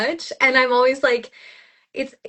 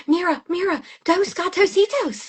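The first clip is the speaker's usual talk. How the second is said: higher, over-the-top Spanish with a Texan twang; 8 semitones higher than usual. Retold or imitated. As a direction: play the TikTok cat lady for the kids. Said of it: "I run around the house going".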